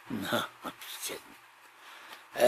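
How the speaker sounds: breathy whisper, barely voiced; whispered aside. Real, not acted. Vlogger whispering he's only kidding about the town name. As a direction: take it back in a quick whisper.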